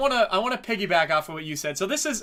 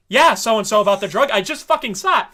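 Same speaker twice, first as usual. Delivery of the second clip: louder, half-joking exasperation; mock annoyed rant; 4 semitones higher, 5 dB louder than usual. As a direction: rant at the show like a fed-up viewer. Viewer annoyed at a repeated flashback.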